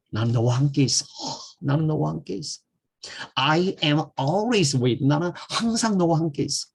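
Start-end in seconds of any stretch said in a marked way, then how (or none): 1.6-2.6 higher, softer and tender; soft reassuring promise; tender take. Shown as a demonstration. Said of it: "해봐요". 3.4-6.7 very slow, each word drawn out; a gentle drawn-out promise; slow romantic model line; slow tender demo. Shown as a demonstration. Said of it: "멋있죠".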